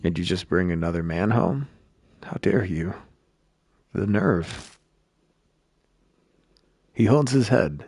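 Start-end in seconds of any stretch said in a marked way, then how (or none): 0.0-4.8 worn-out bitter man. Acted. Exhausted man complaining about his wife, weary and bitter. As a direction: mutter it like you've nothing left.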